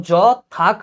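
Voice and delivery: যথাক slow, closed on a k; stopping before "krome". Shown as a demonstration. Teacher showing where to stop, যথাক drawn out slowly. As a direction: stretch যথাক as "jaw... thak". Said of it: "ক্রমের আগে তুমি থামছো".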